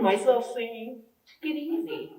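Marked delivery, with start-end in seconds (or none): 1.4-2.1 put-on soft, higher-pitched British accent; politely restrained British voice, quoting oneself. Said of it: "my British accent came out then".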